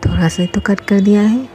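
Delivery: sarcastic repeat of the doctor's excuse; mocking echo. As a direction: throw his own line back at him mockingly. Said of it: "चुप रहिए आप".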